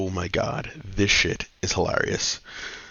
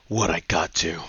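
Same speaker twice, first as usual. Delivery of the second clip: lower, cool action-hero line; tough one-liner; 4 semitones lower than usual. Retold or imitated. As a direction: deliver it low like a badass.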